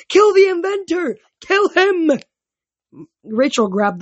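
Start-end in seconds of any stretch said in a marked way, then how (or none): 0.1-2.1 high, loud wailing cry; a ghost howling for blood; wailing shout. A narrator's reading. Minos's ghost wailing for the inventor's death, loud wail.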